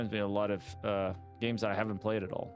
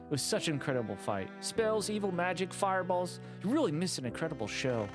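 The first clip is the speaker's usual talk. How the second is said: higher, eager storyteller NPC; excited villager; 5 semitones higher than usual. Acted. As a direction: gush about the epic battle. Excited NPC recounts battle.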